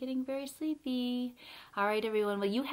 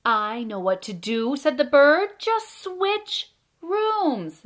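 loud, deliberate picture-book narration with pauses; reading to children; 6 semitones higher, 10 dB louder, slower than usual. A narrator's reading. Storyteller reads a bedtime tale about Fred and Ted, lively read-aloud. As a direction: read it out with big, bouncy emphasis.

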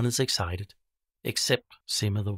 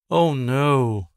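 louder, higher cry of dismay; dismayed villagers; 4 semitones higher, 8 dB louder than usual. Acted. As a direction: groan at the ruined day. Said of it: "the villagers say".

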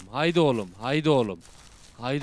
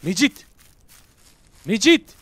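calling out; 5 semitones higher, 10 dB louder than usual. Real, not acted. Calling out to the ghost.

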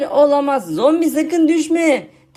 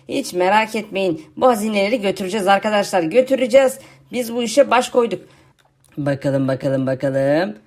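lightly lowered, lazy zombie voice; zombie friend voice; 5 semitones lower than usual. Acted. YouTuber voicing his zombie friend for viewers, lightly lowered zombie voice.

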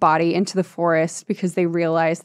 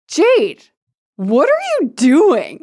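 louder and higher, stunned repeat; shocked Mark; 6 semitones higher, 4 dB louder, slower than usual. Retold or imitated. Friend repeating Mark's shocked line to Jade, louder. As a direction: call out her name in horror. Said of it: "He's so shocked".

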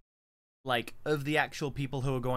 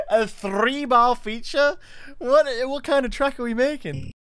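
incredulous; 11 semitones higher, 6 dB louder than usual. Real, not acted. Disbelief at chat request.

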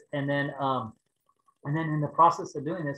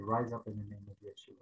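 soft, lower, hushed command; timid prayer; 5 semitones lower, 9 dB quieter than usual. Retold or imitated. Kneeling by the car, softly praying over the woman. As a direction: say it gently, almost to yourself.

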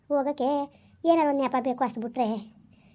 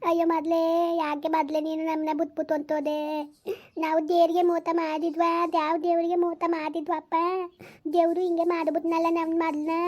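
wailing lament. Acted. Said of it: "ಸುಮ್ಕಿರು, ಅಳ್ಬೇಡ".

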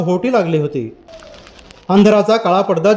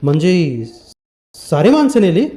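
astonished question. Acted. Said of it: "बळीनं आश्चर्यानं विचारलं".

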